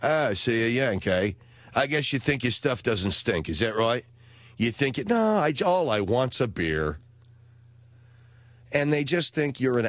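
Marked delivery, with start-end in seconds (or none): 0.0-7.0 British pub regular. Retold or imitated. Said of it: "they hear the American accent".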